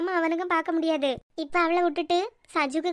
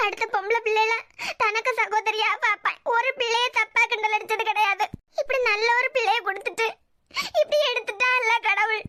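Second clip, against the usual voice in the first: tearful protest at fate; plaintive, tearful questioning; crying; 2 semitones higher than usual. Acted. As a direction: wail in grief for a lost child. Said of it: "அண்ணா, அழாத".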